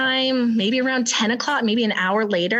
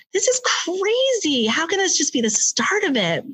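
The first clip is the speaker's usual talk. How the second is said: panicked disbelief; 7 semitones higher than usual. Retold or imitated. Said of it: "And I was like".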